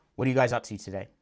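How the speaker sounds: falling intonation with a sense of finality. Showing how to ask a question with finality: downward inflection. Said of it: "You end it on a downward inflection".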